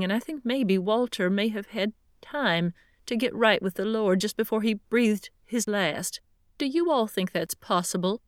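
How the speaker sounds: worried widow asking about her husband's soul; tearful older woman. Acted. Pat voiced again.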